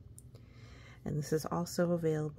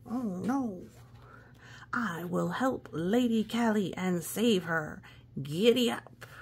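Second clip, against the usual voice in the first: voice of the knight; 2 semitones higher, 3 dB louder than usual. Acted. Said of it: "Guess I should give him a voice".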